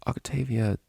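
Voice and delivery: breathy trembling whisper; shaky whisper. A narrator's reading. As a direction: whisper her name, unsteady. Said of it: "Vinyl whispered shakily".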